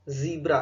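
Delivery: ज़ीब्रा with a long EE, ZEE-bra; correct ZEE-bra pronunciation. Shown as a demonstration. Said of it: "ध्यान दीजिए इसका pronunciation". (ज़ीब्रा में लंबी ई का उच्चारण)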